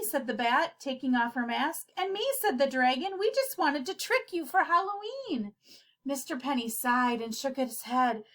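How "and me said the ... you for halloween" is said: dragon. Acted. Dragon explains.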